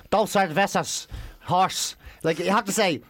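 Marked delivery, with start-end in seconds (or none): 0.1-2.0 slow, unadapted Irish-accented Spanish. Shown as a demonstration. Irish tourist ordering beers in Spain, Irish accent. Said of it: "you can't go over and say".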